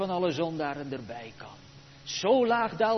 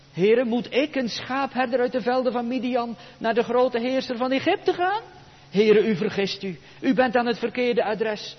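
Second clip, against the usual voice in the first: objecting; 6 semitones higher, 6 dB louder than usual. Acted. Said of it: "Hoofdstuk drie, vers elf".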